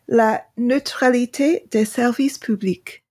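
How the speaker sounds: "la neutralité des services publics" in a heavy English accent, French sounds anglicised; an English speaker stumbling through the French "la neutralité des services publics"; bad French pronunciation. Real, not acted. Podcast host warns listeners, then reads French in a clumsy English accent. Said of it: "I'm gonna pronounce this horribly".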